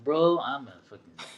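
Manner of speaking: slow, half-laughing exasperated dad; exasperated but amused, drawn out; mock frustration. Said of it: "super frustrating".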